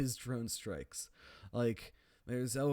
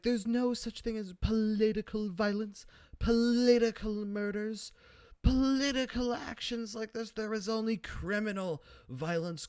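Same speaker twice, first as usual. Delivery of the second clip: Margaret Thatcher; 9 semitones higher, 4 dB louder than usual. Retold or imitated. Thatcher calling the Queen, high hammed-up stern lecture. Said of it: "she's like".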